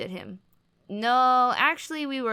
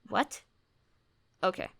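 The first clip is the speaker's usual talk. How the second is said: usual speaking voice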